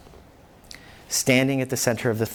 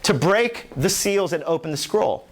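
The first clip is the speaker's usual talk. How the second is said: loud proclamation; 6 semitones higher than usual. Acted. Preacher voicing the angel's loud proclamation. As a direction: proclaim it to all of heaven. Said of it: "proclaim in a loud voice".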